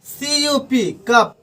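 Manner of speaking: कप said with a hard k, "kap"; spelled then said. Shown as a demonstration. Teacher spells C-U-P, then says कप. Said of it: "जैसे".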